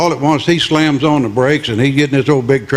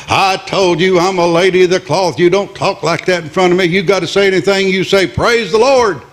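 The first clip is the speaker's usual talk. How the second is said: rising higher and faster, more and more worked up; a young nun losing patience, scolding faster and higher; indignant scolding nun; 4 semitones higher, faster than usual. Retold or imitated. Young nun scolds the cursing trucker, indignant and rising.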